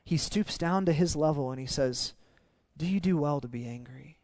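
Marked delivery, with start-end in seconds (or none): 2.8-4.2 soft, tender question; gentle father. Acted. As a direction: ask softly, like a patient father. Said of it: "comes to Jonah as a gentle father".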